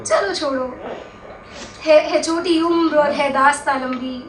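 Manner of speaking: measured verse with paused, falling refrain; understated mushaira recital; poetry recitation. Acted. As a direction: recite slightly held back, leaving space before the refrain.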